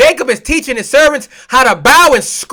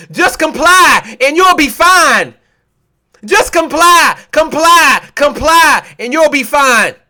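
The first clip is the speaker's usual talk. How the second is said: mock insistent drilling; 3 semitones higher, slower than usual. Acted parent drilling children to comply.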